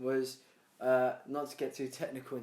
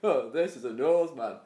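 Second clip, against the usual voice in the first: slow, louder laid-back dude; mock abductee; 5 dB louder than usual. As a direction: explain a nose to an alien, unhurried. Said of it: "he's like".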